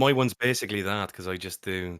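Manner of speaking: put-on Dublin Irish voice; Dublin accent. Shown as a demonstration. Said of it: "that's definitely Dublin you're doing there".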